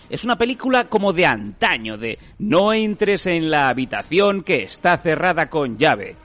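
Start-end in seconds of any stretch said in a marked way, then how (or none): 2.4-6.2 suspense film warning. Pretend. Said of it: "como una película de suspense".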